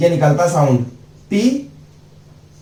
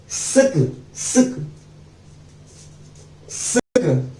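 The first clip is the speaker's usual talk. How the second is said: "सिक" said softer each time, down to a whisper; soft sound demo; 6 dB quieter, much slower than usual. Shown as a demonstration. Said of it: "सक को बोलते हैं S के". ("सिक" को धीरे-धीरे फुसफुसाते हुए)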